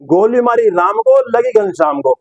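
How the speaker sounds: lightly imitated commentator's slow one-liner; Sidhu. Presenter quoting Sidhu's catchphrase to viewers, mildly declaimed impression. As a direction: draw out the rhyme, lifting then dropping at the end. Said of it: "ये सिद्धू जी बोलते हैं".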